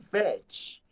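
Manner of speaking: "village" drawn out slowly, ending on a clear "ch"; slow village with final ch. Shown as a demonstration. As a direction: stretch "village" and land on the "ch". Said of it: "cái từ ch". (nói chậm "village", bật rõ âm "ch" cuối)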